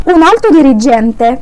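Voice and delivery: Un alto dirigente spoken very slowly; slow Italian demo. Shown as a demonstration. A teacher dictating Un alto dirigente slowly to students. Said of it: "تعالى افهمك في مثل تاني".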